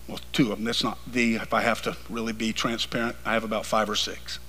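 low, soft confiding preacher; quiet preaching. Real, not acted. Quiet confiding aside in sermon.

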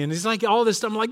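usual speaking voice

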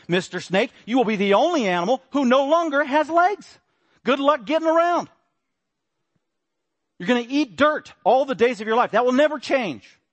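booming high proclamation of God; God's curse. Acted. God pronouncing the curse on the snake, booming.

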